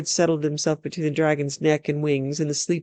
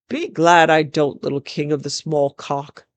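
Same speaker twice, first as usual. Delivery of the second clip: louder mocking call; shouted taunt; 4 dB louder than usual. Elf warrior taunts the raging king, shouted. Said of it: "He shouted".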